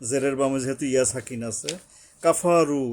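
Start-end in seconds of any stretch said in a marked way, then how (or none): 2.2-2.8 কাফারু with the final vowel drawn out one alif; কাফারু, long vowel at the end; elongated vowel. Shown as a demonstration. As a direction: stretch the ending of কাফারু. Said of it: "ওয়ার উপরে একালিপ টানতে হবে".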